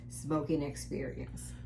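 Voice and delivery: breathy ad-read whisper. Acted. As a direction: whisper it like a luxury ad. Dramatic whisper ending ad copy.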